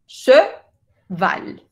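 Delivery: cheval with a rounded schwa, slow; French cheval. Shown as a demonstration. Teacher modelling a French word for students. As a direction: round the lips on the che of cheval. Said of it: "Che, e. El importante es el e".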